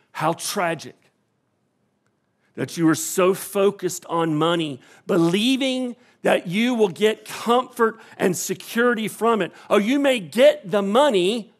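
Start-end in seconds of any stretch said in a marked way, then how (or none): none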